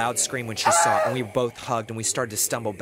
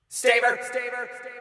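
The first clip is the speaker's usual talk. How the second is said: yelling a name; 12 semitones higher than usual. Acted. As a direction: call out hard, then let it die away. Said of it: "The voice yelled behind me".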